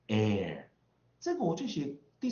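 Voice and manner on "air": "air" drawn out slowly into a curled R; American R-coloured vowel. Shown as a demonstration. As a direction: model "air" with the R clearly sounded. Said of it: "我就念air". (美式 "air"，慢读卷舌)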